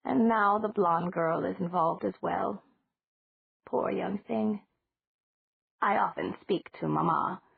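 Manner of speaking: slow, lightly voiced old lady; a hint of a sorrowful old woman, taking her time; slow, gently pitying landlady; elderly landlady.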